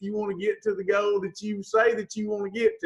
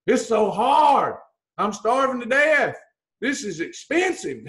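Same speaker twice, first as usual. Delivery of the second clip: mock complaining dieter. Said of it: "But instead we go".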